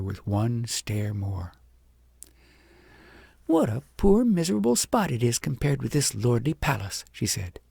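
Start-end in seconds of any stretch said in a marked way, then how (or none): 3.5-7.0 put-on mild scorn from a proud child; disdainful girl. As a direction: look down your nose at it. Agnes sneers at home.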